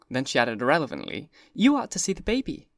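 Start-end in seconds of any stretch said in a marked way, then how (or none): 1.5-2.7 put-on much higher, light young woman's voice; high, airy society girl; Daisy's voice. A narrator's reading. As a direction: toss it off brightly, irrelevantly. Daisy voiced, changing the subject.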